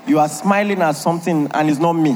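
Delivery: mock jealous wife. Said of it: "You say".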